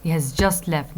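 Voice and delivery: "just" picked out, falling on "left"; stress on JUST. Shown as a demonstration. Lecturer contrasting with two minutes ago, stress on JUST. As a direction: put the weight on the word "just". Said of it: "So the time matters here".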